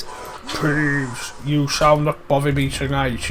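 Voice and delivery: lightly voiced stern ghost command; a hint of a grand ghostly decree, half-mocking; mock Bloody Baron. Gamer mocks Harry ordering Peeves as the Baron, lightly voiced. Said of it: "does the impression of a bloody Baron".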